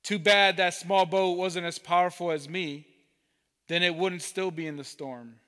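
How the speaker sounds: big boat boasting to the others, mild yell. Acted. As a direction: call across the harbor, proud of your power. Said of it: "The big boat yells out".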